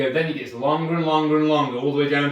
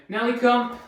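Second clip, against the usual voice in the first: a brisk, slightly raised recall call; calling the dog; 5 semitones higher, 5 dB louder than usual. Shown as a demonstration. Trainer calling the dog back down the hall, raised call. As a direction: call her in clearly and firmly. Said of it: "So we just say the dog's name".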